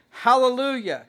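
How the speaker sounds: loud, high ringing hallelujah; a jubilant shout of hallelujah. Retold or imitated. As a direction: cry it out like a great multitude.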